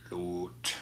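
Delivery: whispered echo of the last word. Real, not acted. Painter whispers an echo of his own word to himself. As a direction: breathe the word lot as an afterthought.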